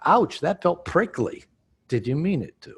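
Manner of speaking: slow demo. Shown as a demonstration.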